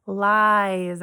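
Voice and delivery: LIES with a stretched "eye" vowel; drawn-out long I. Shown as a demonstration. Teacher showing pupils the long I sound in a word, LIES stretched slowly. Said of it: "I hear that long I sound".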